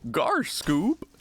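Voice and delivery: high, swooping cartoon goofball; hammed-up dopey cartoon catchphrases with giggles; goofy cartoon impression.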